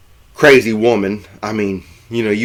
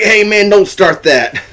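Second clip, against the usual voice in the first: mock protest; 10 semitones higher, 5 dB louder than usual. Bill objects to the hype.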